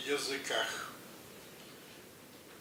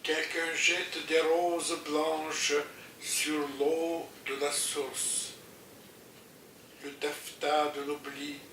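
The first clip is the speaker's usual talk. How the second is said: poem recitation. Acted.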